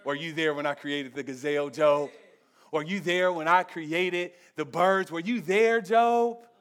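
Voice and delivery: low, soft, quick divine questioning; smooth, understated God voice, building slightly. Acted. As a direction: play God coolly questioning a man. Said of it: "God just came out real smooth".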